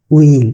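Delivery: উইল as "wiil", no h; long vowel in উইল after a plain w; correct pronunciation. Shown as a demonstration. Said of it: "তারা কিন্তু হুইল বলবে না". (উইল, হ ছাড়া শুদ্ধ উচ্চারণ)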